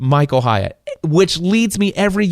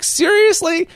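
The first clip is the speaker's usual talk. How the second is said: amazed disbelief. Retold or imitated. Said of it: "And I'm like".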